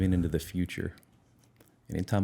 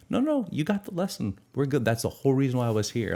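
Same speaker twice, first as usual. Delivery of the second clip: much higher, light easygoing voice for his depression; voicing his depression; 6 semitones higher than usual. Depression reassures him it's over, high and breezy. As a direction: play the depression as a breezy friend who is done.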